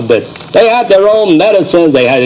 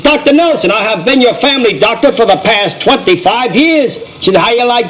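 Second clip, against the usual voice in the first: put-on a touch higher, an offended old lady; indignant old lady; 5 semitones higher than usual. Old lady scolding the doctor who forgot her, mildly indignant.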